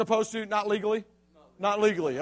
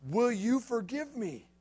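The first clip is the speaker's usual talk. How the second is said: softer, slow and small; slow pleading; 5 dB quieter, slower than usual. Retold or imitated. Josh pleading with Kurt, soft and slow. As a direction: ask forgiveness like a puppy. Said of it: "And he says".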